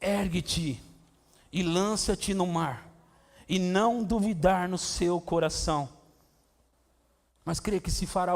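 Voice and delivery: slow, weighty scripture reading; measured scripture quote; solemn recitation. Acted. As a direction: let each word land slowly.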